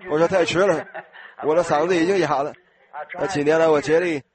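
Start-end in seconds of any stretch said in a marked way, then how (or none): 0.1-2.5 laughing. Real, not acted. Joking about forgotten hairpiece.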